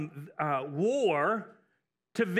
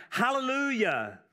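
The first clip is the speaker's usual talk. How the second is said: hallelujah lifted higher, a little brighter; reading a joyful hallelujah; 5 semitones higher than usual. A narrator's reading. Preacher voicing heaven's crowd, a touch of joyful cry. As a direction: proclaim it like the crowd crying out. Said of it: "a great multitude in heaven crying out".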